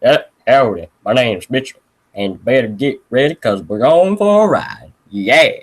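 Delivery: deep-voiced howdy character; lightly voiced deep Mitchell; put-on deep voice. Shown as a demonstration. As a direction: put on a deep cowboy-style voice. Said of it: "I can only do deep voices like this".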